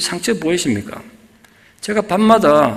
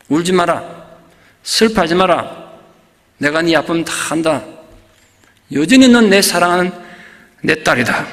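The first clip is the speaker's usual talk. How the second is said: voice of God. Retold or imitated. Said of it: "자기 귀에 이렇게 들리더란".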